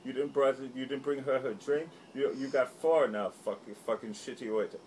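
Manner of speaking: hammed-up bullying customer; mocking bully voice. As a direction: scold the waiter with a sneer. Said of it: "And he goes".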